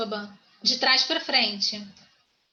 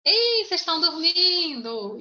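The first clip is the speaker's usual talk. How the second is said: playful rousing call; 5 semitones higher than usual. Real, not acted. Teacher teasing a silent class, playful rousing call. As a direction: wake them up with long, sing-out vowels.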